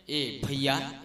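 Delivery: slow, low call of endearment; sweet address. Acted. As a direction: address a brother sweetly and unhurriedly. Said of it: "अतकीच में मधुरता है".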